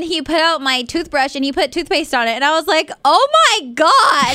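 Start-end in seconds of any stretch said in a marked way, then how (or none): 3.0-4.4 high, loud, drawn-out overwhelmed wail; close to crying. Retold or imitated. Girlfriend finding toothpaste on her brush, tearfully overwhelmed. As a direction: stretch it out as if about to cry. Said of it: "I'm gonna start crying".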